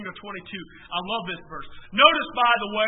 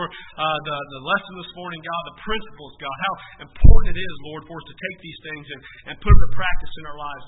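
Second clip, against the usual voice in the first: lowered, earnest pastoral prayer; 4 semitones lower, 4 dB louder than usual. Real, not acted. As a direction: lead the congregation in prayer, addressing the Lord. Leads the congregation in closing prayer.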